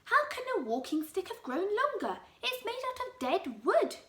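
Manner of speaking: lightly voiced scornful old man; scornful Mister Twit. Husband mocking his wife, lightly scornful. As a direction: sneer it out as a mean husband.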